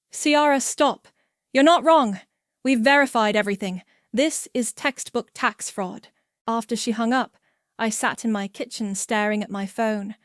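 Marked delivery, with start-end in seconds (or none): 0.1-6.1 louder, cutting her off; firm. Acted. Agent Jennifer cutting off Ciara's panic, firm and loud. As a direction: stop her spiral firmly.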